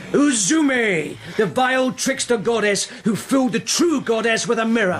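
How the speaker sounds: rising to a furious shout; shouted denunciation of a trickster; accusing shout. Acted. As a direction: hurl the accusation at her. Accusing her in a heated quarrel.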